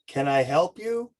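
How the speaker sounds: loud slow question. Retold or imitated. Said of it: "literally yelled".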